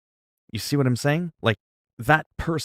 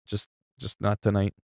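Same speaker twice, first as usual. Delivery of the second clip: softer repeat, trailing off; quiet; 6 dB quieter than usual. Real, not acted. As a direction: say it again under your breath.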